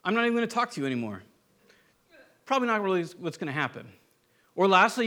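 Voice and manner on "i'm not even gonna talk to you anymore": apathetic brush-off. Retold or imitated. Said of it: "We could be apathetic".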